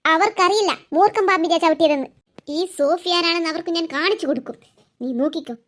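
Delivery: low, menacing threat; vengeful threat. Acted. Sofi vowing revenge to her friend, low and menacing. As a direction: promise revenge darkly. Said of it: "ഇത് ദേഷ്യപ്പെടാതിരിക്കൂ സോഫി".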